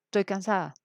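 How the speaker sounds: "Estoy cansada" with "Estoy" clipped to "toy"; casual spoken form. Shown as a demonstration. Teacher giving a spoken-Spanish example, "Estoy" reduced to "toy". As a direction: say "Estoy cansada" colloquially, dropping the "es-". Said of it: "Es como cuando yo digo".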